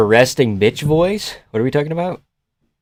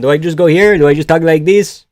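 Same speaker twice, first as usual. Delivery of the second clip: higher, testing out a Mexican accent; trying Mexican accent; 3 semitones higher, 4 dB louder than usual. Shown as a demonstration. Streamer asking viewers how to do Mexican, tentative Mexican accent. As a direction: feel your way into a Mexican accent. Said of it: "How do I do Mexican?".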